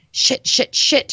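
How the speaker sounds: whispered curse under the breath; inner whisper. A narrator's reading. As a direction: hiss it to herself, unvoiced. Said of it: "she thought".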